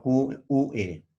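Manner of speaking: slow letter-by-letter spelling, Q U E; spelled out slowly. Shown as a demonstration. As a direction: spell Q U E out for the class one letter at a time. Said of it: "Queso se escribe". (deletreando Q U E despacio)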